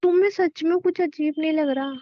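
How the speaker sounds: incredulous. Acted. Woman asks partner if it truly seems fine, incredulous. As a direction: press him, unable to believe it. Woman presses her disbelieving question.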